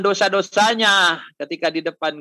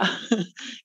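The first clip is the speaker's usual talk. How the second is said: breathy chuckle; 2 semitones higher, 6 dB quieter than usual. Retold or imitated. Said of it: "Itu bosnya ketawa".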